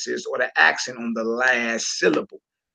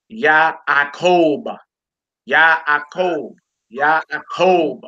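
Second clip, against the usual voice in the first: "Yaakov" as yah-ah-KOHB, syllables separated; last-syllable stress; much slower than usual. Shown as a demonstration. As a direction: lean on the long final syllable of "Yaakov". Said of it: "accent on last syllable".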